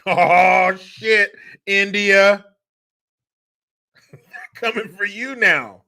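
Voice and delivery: high, loud mock alarm; alarmed outburst. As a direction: blurt it out in hammed-up panic. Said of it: "Hades standing there shaking their head like".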